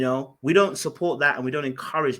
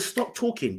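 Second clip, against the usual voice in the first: pitched higher, urgent; sharp raised warning to stop; firmer retold warning; 6 semitones higher, 4 dB quieter, slower than usual. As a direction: raise it higher, cutting her off. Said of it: "I said".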